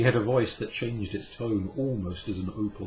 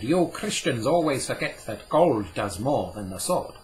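put-on raised, lively old Jewish scholar; Cadmiel, a touch amused; 3 semitones higher, 5 dB louder than usual. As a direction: play the learned old man, gently amused. Cadmiel's voice in the story.

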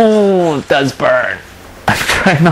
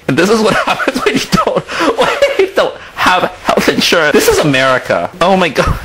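nervous laugh; 3 semitones higher, faster than usual. Real, not acted. Laughing through nervous joke.

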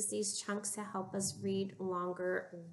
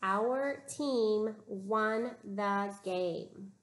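slow, even modeled sentence; teacher reading the sentence slowly for students to copy; much slower than usual. Shown as a demonstration. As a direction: read it slowly word by word, as a model for the class. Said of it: "Listen to the sentence".

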